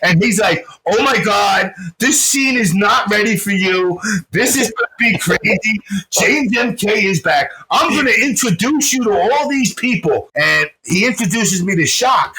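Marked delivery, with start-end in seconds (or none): 0.9-10.3 imitated gushing, higher-pitched excitement; thrilled announcing. Friend proclaiming his return to the scene, acted excitement. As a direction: hype it up, climbing higher to the end. Nitten excitedly welcomes him back.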